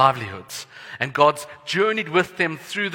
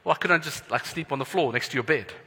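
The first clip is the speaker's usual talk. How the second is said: put-on whiny kid; 4 semitones higher, 4 dB louder than usual. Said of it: "I'm like".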